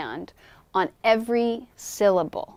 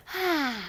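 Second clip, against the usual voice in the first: content sigh; 6 semitones higher, 8 dB quieter than usual. Shown as a demonstration. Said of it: "holding her breath".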